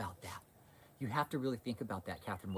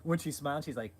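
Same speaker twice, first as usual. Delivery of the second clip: high, giggling words; laughing while talking; 10 semitones higher, 9 dB louder than usual. Real, not acted. Vlogger mocking the preacher's face, laughing through it.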